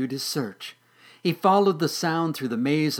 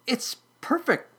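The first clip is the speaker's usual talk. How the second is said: very high, pleased kitten voice; purring kitten; 13 semitones higher than usual. Acted. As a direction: purr it in a tiny high voice. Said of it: "purred the kitten".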